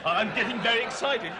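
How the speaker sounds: English accent, excited as if telling someone off. Shown as a demonstration. Guest demonstrating his excitement misread as scolding, English accent. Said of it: "everybody thinks you're telling them off".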